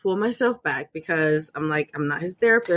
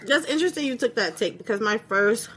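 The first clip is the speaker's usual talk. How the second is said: mouth full. Real, not acted. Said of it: "sorry, Jolly Rancher in my mouth".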